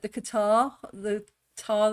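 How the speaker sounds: "Qatar" as if clearing phlegm; throaty demonstration of "Qatar". Shown as a demonstration. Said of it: "sounds a lot like phlegm in the throat".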